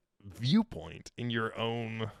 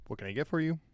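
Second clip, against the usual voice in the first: put-on lightly French-accented bartender; a hint of French in the English; just a touch of French accent; slight French accent; 4 semitones higher, faster than usual. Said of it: "A little bit of a French accent".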